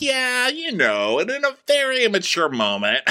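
mock Chris. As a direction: drag it out like a man owning up. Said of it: "And Chris goes".

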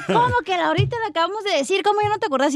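mock scolding mother. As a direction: nag like a fed-up mom, half-playful. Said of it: "tu mamá te está grite y grite".

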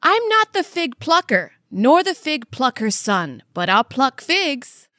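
slow, deliberate, each word apart; slow tongue twister. Shown as a demonstration. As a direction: pick each word out carefully. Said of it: "you do the next one".

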